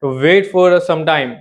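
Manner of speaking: slow, word by word; slowly, so students can repeat; slow teaching read. Shown as a demonstration. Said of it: "થોડી વાર રાહ જુઓ".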